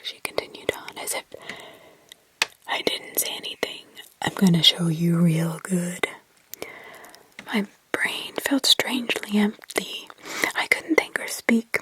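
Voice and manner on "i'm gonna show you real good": put-on demonic child. Possessed girl accusing Mark, lower demonic whisper. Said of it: "it was demonic in others".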